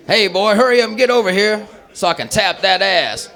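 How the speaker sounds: hollering dad. Acted. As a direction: read the text out as an impatient father. Reads out dad's text, punchline.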